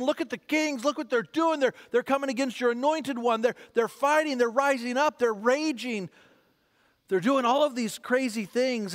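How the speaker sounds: mild imitated complaint, piling up grievances; complaining to God. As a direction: protest like an exasperated psalmist. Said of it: "He's complaining".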